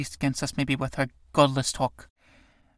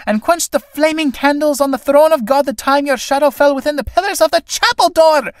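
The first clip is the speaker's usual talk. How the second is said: shouted insults; 10 semitones higher, 5 dB louder than usual. Acted. Mary hurling insults, walking off.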